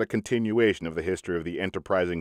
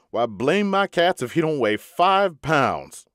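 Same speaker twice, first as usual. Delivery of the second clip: slow, amazed exclamation; astonished; 7 semitones higher, slower than usual. A narrator's reading. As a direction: marvel at the weight slowly. Smiley astonished by weight.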